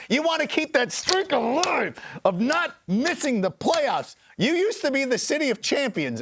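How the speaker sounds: fired-up tirade aimed at the Steelers head coach; mock rant at coach. Real, not acted. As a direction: rail at the coach over the benching. Ranting at coach Mike Tomlin.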